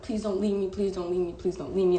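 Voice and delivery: rapid-fire repeated plea, retold; retold begging. Retelling how she begged her boyfriend to stay, mild pleading. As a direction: mildly act out begging someone to stay. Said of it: "I've never begged somebody".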